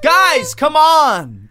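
put-on high strained yell at kids. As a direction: yell as loud as you can. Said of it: "I can't yell louder than that".

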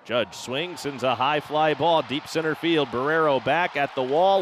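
rising excited home run call; play-by-play call. Acted.

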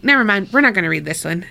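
fast, laughing aside. Retold or imitated. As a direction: rattle it off through a laugh. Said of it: "I'd be like".

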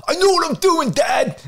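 high, loud mock kid yell; kid shouting back. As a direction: shout back like an annoyed twelve-year-old. Kid snapping back at father.

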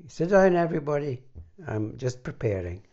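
loud, fast, muffled from behind a lectern. Retold or imitated. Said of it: "you'd hear this muffled voice saying".

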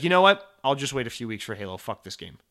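a frustrated outburst that fizzles into a grumble. Retold or imitated. Acting out quitting in frustration.

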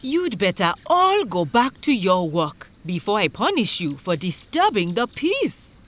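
mildly stern chief's warning; lightly voiced disapproving chief; scowling chief. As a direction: warn them with measured authority. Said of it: "he couldn't refrain from scowling".

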